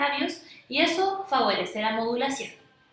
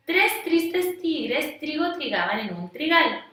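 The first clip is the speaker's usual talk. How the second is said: slow tongue twister; 3 semitones higher, slower than usual. Shown as a demonstration. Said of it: "uno más conocido".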